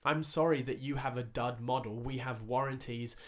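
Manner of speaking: measured, deliberately calm customer-service explanation; patient retold apology, carefully spaced out; calmest voice. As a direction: calmly reason with an upset customer. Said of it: "I said to her in the calmest voice".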